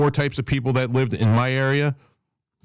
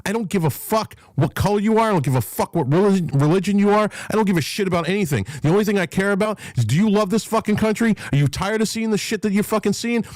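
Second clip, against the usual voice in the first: high, fast, fired-up tirade; pushing his pitch up as he rails at everyone; heated rant; 8 semitones higher than usual. Real, not acted. Livestream host ranting at his audience, high and fired up. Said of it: "F B A getting you emotional".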